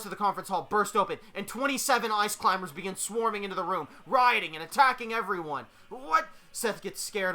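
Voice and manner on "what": high loud shocked cry. Acted. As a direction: yelp in shock. Riot bursts in.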